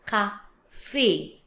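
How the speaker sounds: CAFE as "ka - FAY", two separated syllables; French with accent. Shown as a demonstration. Teacher showing the accented French word, French pronunciation. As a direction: sound the final e of cafe as é. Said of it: "but now with accent".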